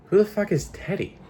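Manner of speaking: high, incredulous blurt; baffled outburst. Real, not acted. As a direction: ask it in total disbelief. Reacting to the book's text.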